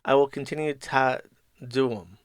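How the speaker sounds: mock British with the T in "continue" and "to" swallowed; put-on British glottal stops; British accent, dropped T's. Shown as a demonstration. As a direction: leave out the T's like a bad Brit. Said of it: "I just don't pronounce the T's".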